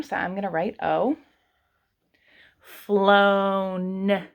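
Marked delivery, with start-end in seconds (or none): 2.6-4.3 "Flown" stretched to the final n; sounding out. Shown as a demonstration. Teacher sounding out flown's last sound. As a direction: drag "Flown" out to its end. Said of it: "At the end".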